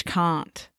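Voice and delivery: soft "can't" with the AH of "father"; low-key British "can't", long vowel. Shown as a demonstration. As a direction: say "can't" as "kahnt", softly. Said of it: "To me, that sounds very British".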